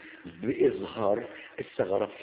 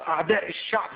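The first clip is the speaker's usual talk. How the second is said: mock prosecutor speech; 3 semitones higher than usual. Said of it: "ويجي بقى وكيل النيابه واقف،".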